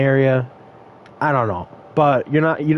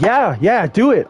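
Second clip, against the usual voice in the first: higher-pitched, goading imitation of a customer; retold dare; 5 semitones higher than usual. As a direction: egg them on in a raised voice. Retold customer daring her to call.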